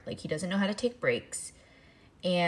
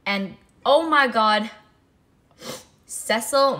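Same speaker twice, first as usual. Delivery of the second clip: ordinary delivery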